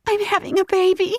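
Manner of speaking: high, breathless gasp of joy; gasped excitement. Acted. Narrator realising the pregnancy, gasping and high. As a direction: gasp it in disbelief. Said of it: "I gasped".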